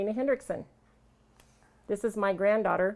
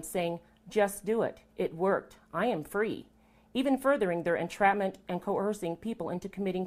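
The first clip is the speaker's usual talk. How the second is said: measured, deliberate read-aloud statement; formal statement. Real, not acted. Woman telling camera of judicial corruption, formal read-aloud statement. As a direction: read a prepared accusation firmly and evenly.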